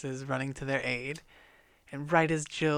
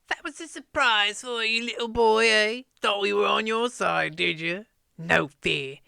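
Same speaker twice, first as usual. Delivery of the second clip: high, loud mocking dwarf voice; jeering dwarves; 3 semitones higher, 5 dB louder than usual. Dwarves jeering back at Eustace, high mocking voice. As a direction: taunt the boy with a sneer. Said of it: "the dwarves just jeer back at Eustace".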